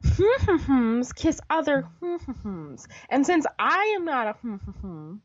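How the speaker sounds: slow, soft humming censor; teasing hmm. Retold or imitated. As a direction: hum out the hidden words slowly. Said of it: "Luke says".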